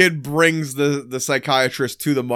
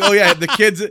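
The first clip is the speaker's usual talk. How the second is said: high mock wife voice; 9 semitones higher, 4 dB louder than usual. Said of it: "she's like".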